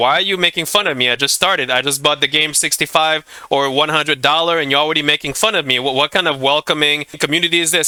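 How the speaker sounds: plain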